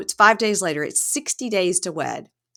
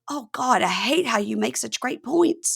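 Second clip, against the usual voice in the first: higher-pitched grudging concession; mock exasperation; 6 semitones higher than usual. Bride gives in to her friend's advice, mock exasperated. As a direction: groan it like a beaten arguer.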